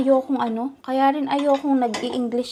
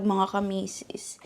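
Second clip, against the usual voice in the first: whispered aside; 3 semitones lower, 7 dB quieter than usual. Real, not acted. To her viewers, a whispered tag-off. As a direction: drop to a soft unvoiced whisper.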